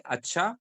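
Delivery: "acha" said evenly with a rising end; intonation demo. Shown as a demonstration. Teacher showing how acha changes meaning, lightly rising "acha". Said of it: "it means something".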